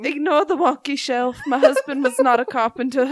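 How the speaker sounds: light Southern belle voice; playful put-on Southern lady; Southern accent. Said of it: "She's Southern now".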